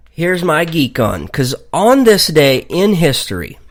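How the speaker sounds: eating while talking; mouth full. Real, not acted. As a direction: talk through a mouthful of food. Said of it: "I can't even talk and eat at the same time".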